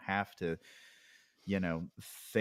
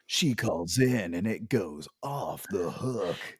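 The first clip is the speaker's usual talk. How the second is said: mock trailer; slower than usual. Joking reality-show trailer voice.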